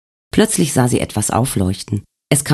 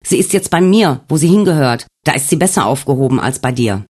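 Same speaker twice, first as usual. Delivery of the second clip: higher, mocking demand; taunting ghost; 3 semitones higher than usual. Wolfgang taunts Alex in his dream, higher and mocking. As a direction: claim her with cold triumph.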